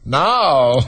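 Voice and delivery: drawn-out, scheming creature voice; sly. A narrator's reading. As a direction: linger slyly over the words. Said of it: "looking slyly up at the crown".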